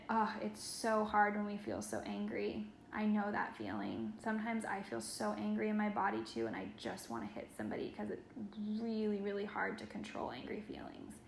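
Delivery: put-on soft, hushed comfort while holding a child. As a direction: murmur it gently into his ear. Comforting the boy while hugging.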